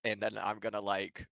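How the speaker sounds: laughing. Real, not acted. Absurd plan, laughing while speaking.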